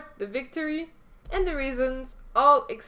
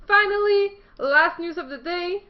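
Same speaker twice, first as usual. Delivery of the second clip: dramatic announcement; 6 semitones higher, 6 dB louder than usual. Acted. Dramatic news sign-off.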